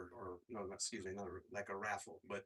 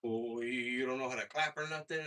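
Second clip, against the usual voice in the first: heckler; 3 semitones higher, 10 dB louder than usual. Retold or imitated. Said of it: "this random guy goes".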